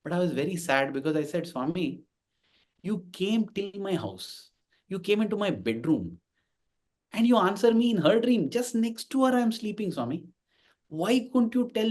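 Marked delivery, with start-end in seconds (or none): 1.5-11.9 softly whining, retelling how he begged; mock whining plea. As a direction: replay his own sulky plea to Swami, half-hearted. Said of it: "And I kept crying and whining".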